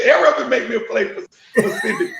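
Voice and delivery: laughing while asking for a plate; laughing eagerly. Retold or imitated. Laughing as he asks the neighbor for a plate. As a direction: chuckle through the request. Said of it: "I said".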